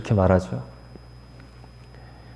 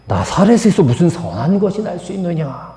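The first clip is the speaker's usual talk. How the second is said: blunt retort; 2 semitones higher than usual. Retold or imitated. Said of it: "이렇게 퉁명스럽게 말하는 거예요".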